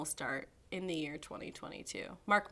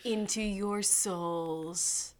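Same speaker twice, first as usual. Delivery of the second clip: very slow, soft and smooth; slow eerie voice; 2 semitones lower, 3 dB quieter, much slower than usual. Pretend. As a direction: draw it out, spooky calm. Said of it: "our smooth voices".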